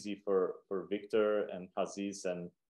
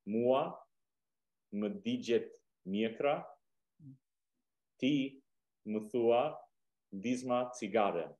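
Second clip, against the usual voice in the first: word by word, long pauses between; slow dictation for learners; very slowly; slower than usual. Shown as a demonstration. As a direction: break the proverb into small, separate pieces. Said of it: "Okay, I'll say it slowly".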